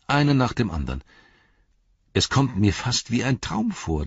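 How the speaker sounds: put-on chatty young hobbit, wistful; lightly voiced young hobbit. Merry voiced by narrator.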